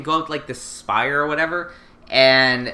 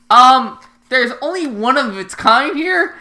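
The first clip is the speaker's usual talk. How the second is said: high mock Lelouch; 10 semitones higher, 6 dB louder than usual. Lelouch explaining the costume to C2, high sheepish voice. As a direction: play it as a flustered, sheepish excuse. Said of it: "And he's like".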